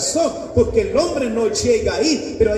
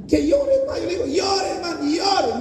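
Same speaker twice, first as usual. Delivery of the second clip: urging to cry; 8 semitones higher, faster than usual. Retold or imitated.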